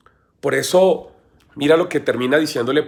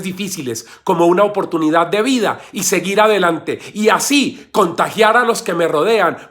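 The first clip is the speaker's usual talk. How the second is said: higher, urgent plea to God; fervent prayer; 4 semitones higher, 3 dB louder than usual. Acted. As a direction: pray it out in one driving, raised run. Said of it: "tú le digas al Señor en tu corazón".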